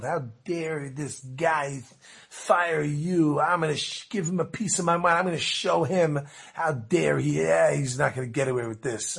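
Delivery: mildly acted indignation; not too thrilled. Partner of the fired woman vowing revenge, mildly indignant. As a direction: retell an aggrieved threat, drawing out the opening. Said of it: "was not too thrilled".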